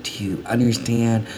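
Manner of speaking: hushed, breathy disapproval; whispering. Acted. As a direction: say it under your breath. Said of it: "You're whispering".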